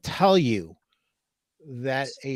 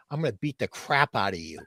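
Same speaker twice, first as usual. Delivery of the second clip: laughing threat; 4 semitones lower, 6 dB quieter, faster than usual. Retold or imitated. Mock threat to store owner.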